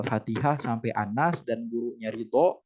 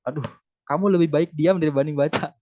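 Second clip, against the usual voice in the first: mock harsh put-down; 4 semitones higher, 5 dB louder, faster than usual. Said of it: "Kita nggak boleh".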